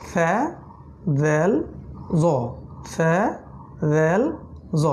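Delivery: ফ্যা দেল জ said lightly, tongue forward; letter recital. Shown as a demonstration. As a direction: run the three letters in order. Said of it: "সমন্বয়ক letter".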